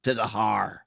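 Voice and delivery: lightly put-on Scottish accent, reading a message out; a hint of a Scottish accent, half-hearted; reading a donation aloud in a mock Scottish accent. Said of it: "I'll read it out in my best Scottish accent".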